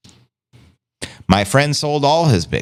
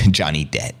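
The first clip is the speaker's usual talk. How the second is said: laughing; 7 semitones lower than usual. Real, not acted. Laughing about Johnny Depp.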